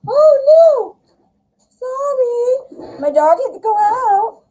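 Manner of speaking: high, flustered oh no; flustered apology. Real, not acted. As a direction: rush back in apologising. Apologising after dog break.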